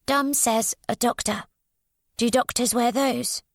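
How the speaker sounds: put-on a withdrawn child speaking in fragments; voiced odd young girl. A narrator's reading.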